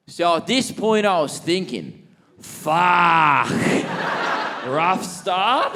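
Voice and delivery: put-on understated old soldier with a blurted curse; old bloke deadpan. Jungle retells seeing grenade.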